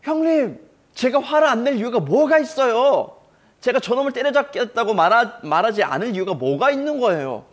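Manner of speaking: high, loud protest ringing out; David's indignant outcry. Acted. Young David shouting back at his scolding brother, high indignant cry. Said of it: "이렇게 외치고".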